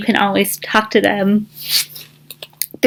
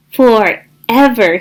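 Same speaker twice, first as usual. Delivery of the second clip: happy; much slower than usual. Acted. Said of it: "said Duck happily".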